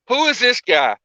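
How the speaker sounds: playfully egging on the mystery guest; mock-curious repeat. Host teasing the mystery guest on air, mock-curious.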